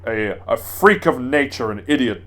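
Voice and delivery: a hint of a melodramatic baddie; Heisenberg impression. Heisenberg insulting a dead lord, lightly mocking sneer. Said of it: "he talks like this".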